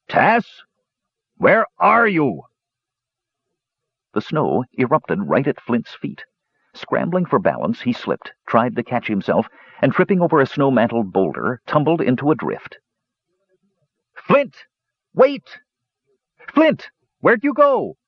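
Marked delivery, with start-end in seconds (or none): 0.1-2.4 high, slow call into the wind; calling, much higher. Acted. 14.1-18.0 very high, cheeky call; bright little kender calling; high-pitched playful kender. Acted. Tass voice.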